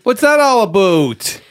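put-on slow, teasing Canadian accent; mock Canadian accent. Echoing to tease the Canadians, slow Canadian accent. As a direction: stretch out a mock Canadian "aboot". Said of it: "making fun of us".

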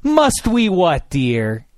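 slow, haughty "Must we what, dear?"; drawn-out sneering politeness; mock disgusted tone. To the old woman, a slow mock-haughty sneer. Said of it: "I say in the same disgusting tone".

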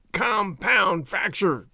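slow pained groan, drawn out; a hurt man groaning his own diagnosis, slowly. A narrator's reading. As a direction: drag the words out through the pain. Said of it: "he groaned".

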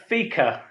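FIKA said clearly, as FEE-kuh; "fika" carefully pronounced as an example; model pronunciation. Shown as a demonstration. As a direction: show how to say "fika", with a long ee. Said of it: "is how I would say it".

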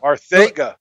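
Arcega with the C said as TH; lisped-sounding C. Shown as a demonstration. Co-host corrects the host's pronunciation, Arcega with a TH sound. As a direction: say Arcega as "ar-THAY-ga". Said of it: "that's how he says it".

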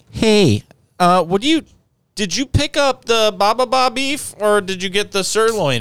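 high-pitched mock wife voice; imitated wife on phone. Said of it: "She's like".

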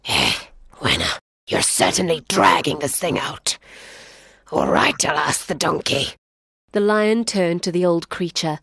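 low, weary lion voice; impatient lion. Acted. Lion grudgingly asking the donkey, low and weary. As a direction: roll your eyes through it.

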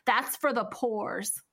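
mock whisper in the quote; whispered aside. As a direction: breathe it out, unvoiced. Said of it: "and he's like".

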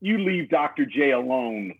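low, mock-earnest pep talk; rallying speech. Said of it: "this rallying speech".

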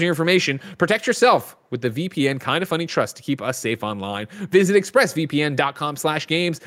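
podcast host's sponsor read; smooth scripted endorsement, key benefits lightly punched. Real, not acted. Host pitching a sponsor to podcast listeners, ad read.

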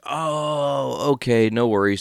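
high, easygoing oh, okay; imitating the dealer. Dealer agreeing to mix the strains, easygoing. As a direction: play the chill dealer shrugging it off.

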